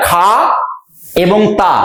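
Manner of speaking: "খা", pause, then "তা" as separate units; split into syllables. Shown as a demonstration. Teacher divides a word into two units, split into syllables. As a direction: say "খা" এবং "তা" apart, syllable by syllable. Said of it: "দুটো ইউনিটে ভাগ করা যায়".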